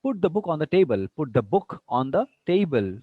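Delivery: loud teaching command, "table" dropping at the end; falling intonation. Shown as a demonstration. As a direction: fall on "table" to close. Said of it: "when we are saying table".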